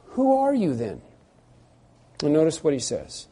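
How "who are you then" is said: demanding question. Retold or imitated.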